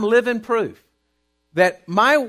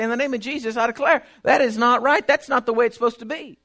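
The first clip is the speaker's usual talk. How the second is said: declaring prayer; 3 semitones higher than usual. Retold or imitated. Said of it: "I'd walk to the house and say".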